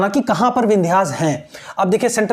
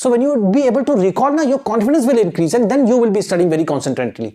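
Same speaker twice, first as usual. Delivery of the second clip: slow encouragement; much slower than usual. Shown as a demonstration. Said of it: "ऐसे जब आप याद करोगे ना".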